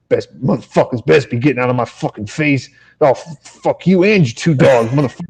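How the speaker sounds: mock crackhead grumbling curses; ranting crackhead. Crackhead cursing the dog walker and his two dogs, imitated rant. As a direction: imitate a ranting stranger, not fully shouted. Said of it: "I had a crackhead yell at me".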